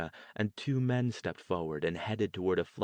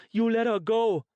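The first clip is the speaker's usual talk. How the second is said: loud, much higher commanding shout; mother shouting at the man holding her daughter; furious order; 14 semitones higher, 8 dB louder than usual. Acted. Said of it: "Pia ordered".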